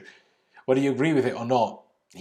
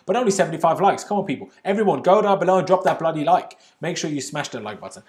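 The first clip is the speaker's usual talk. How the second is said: mock outraged plea; 6 semitones higher, 8 dB louder than usual. Real, not acted. Begging viewers for likes.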